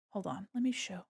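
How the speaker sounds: breathy whisper, no voice. Real, not acted. Streamer whispering to chat while fetching something. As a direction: lean in and whisper.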